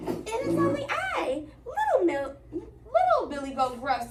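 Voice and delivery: high little goat voice. Acted. Little goat answering the troll, high and timid.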